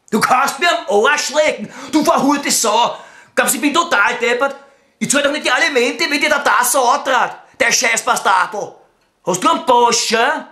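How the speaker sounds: 1 angry outburst. Acted. Angry phone outburst at Beate.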